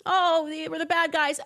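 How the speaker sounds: high, loud sarcastic parody of the official line; sarcastic mock. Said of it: "they don't wanna tell you".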